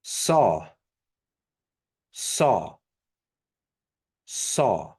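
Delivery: Saw with an English s; regular S. Shown as a demonstration. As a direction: say Saw with a plain hiss. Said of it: "So regular S".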